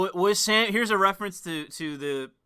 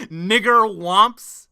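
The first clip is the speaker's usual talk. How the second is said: mocking repeat; 5 dB louder, much slower than usual. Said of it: "sounds like he's saying".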